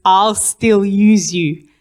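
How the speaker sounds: a slow, gentle divine voice, lightly voiced; voice of God. A woman recalls God speaking to her before surgery, slow and calm. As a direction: let the four words land slowly like a voice from heaven. God's words heard in her heart.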